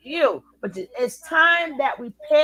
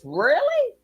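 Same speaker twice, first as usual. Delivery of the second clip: scoffing really; 8 semitones higher, 4 dB louder than usual. Real, not acted. Scoffing at a comment.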